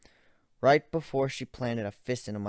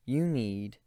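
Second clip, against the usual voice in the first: screamed threat, much higher and louder; furious shout; 6 semitones higher, 22 dB louder, much slower than usual. Acted. Narrator screaming at Ivan that he must die.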